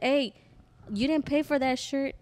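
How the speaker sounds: calling after someone. Retold or imitated. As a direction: call out to stop someone leaving. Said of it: "she tried walking away".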